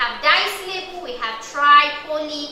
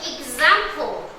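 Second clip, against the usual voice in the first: "Example" stretched slowly as ex-am-ple; slow syllable demo; slower than usual. Shown as a demonstration. Teacher to class, splitting the word slowly. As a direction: spell "Example" out slowly, beat by beat. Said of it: "that's the X A M".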